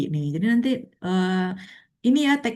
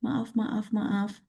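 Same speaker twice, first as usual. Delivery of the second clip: slowed apology; 4 semitones higher, much slower than usual. Real, not acted. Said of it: "Bicaranya terlalu cepat".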